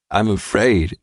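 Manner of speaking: put-on a small scared little-boy plea; lightly voiced boy, afraid of falling; frightened child. A narrator's reading. Little boy on the mastodon, lightly voiced scared cry. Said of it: "little Marky cried".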